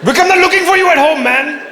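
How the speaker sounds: high, loud call across the street; calling the dog. Pretend. A passer-by at the bus stop calls to the runaway dog.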